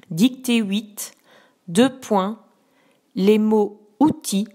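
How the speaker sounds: slow, clear dictation voice; dictating. Shown as a demonstration. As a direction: dictate each word distinctly. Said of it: "je vais d'abord te dicter".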